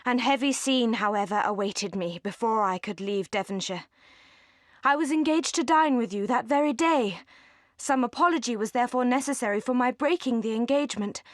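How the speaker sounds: ordinary delivery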